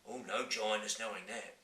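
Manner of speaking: giant voice. Acted. Giant replies.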